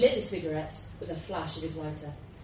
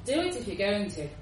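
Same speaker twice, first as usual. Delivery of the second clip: bored repeat; 6 dB louder than usual. Acted. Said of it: "he repeated".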